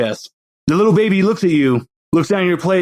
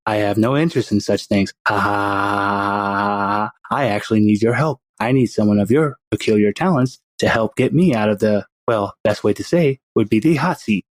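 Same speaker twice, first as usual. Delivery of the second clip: put-on baby villain; 6 semitones lower than usual. Baby with a pacifier courts Anita, in a lower sinister voice. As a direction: play the baby as a smug little schemer.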